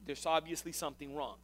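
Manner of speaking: understated fatherly concern; level with a son, gently and without anger; a touch of a patient father. Acted. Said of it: "It's a father to son tone".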